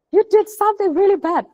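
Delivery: P=A; stern teacher. Retold or imitated. Teacher scolding, quoted first.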